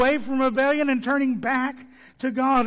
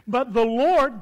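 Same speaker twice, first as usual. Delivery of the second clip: "Lord" hit louder and drawn down; stress on Lord; 4 dB louder than usual. Shown as a demonstration. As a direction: land firmly on "Lord". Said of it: "that's in the emphatic".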